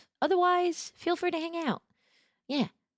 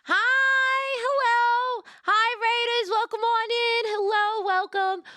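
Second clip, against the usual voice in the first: high, bright fifties waitress greeting; diner waitress; 13 semitones higher, 4 dB louder, slower than usual. Acted. Greets raiders in diner persona.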